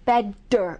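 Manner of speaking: bedder with a heavy, full D sound; strong D. Shown as a demonstration. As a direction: say bedder with a hard D. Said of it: "It's not a real strong D".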